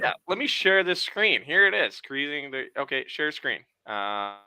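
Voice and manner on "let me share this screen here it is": sped-up, squeaky high audio glitch; chipmunk audio. Real, not acted. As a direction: voice played back too fast and high. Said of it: "Yeah, chipmunk audio".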